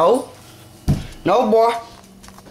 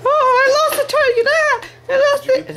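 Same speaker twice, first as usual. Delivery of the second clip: surprised; 8 semitones higher than usual. Real, not acted. Losing the dog on camera.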